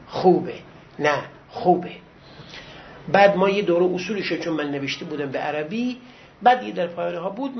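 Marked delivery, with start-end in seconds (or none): 0.1-1.9 low-pitched, deliberate approval; approving teacher. Retold or imitated. Lecturer recalling his teacher's wording, low deliberate approval. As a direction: repeat the teacher's verdict in a low voice. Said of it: "این، این تعبیرش بود".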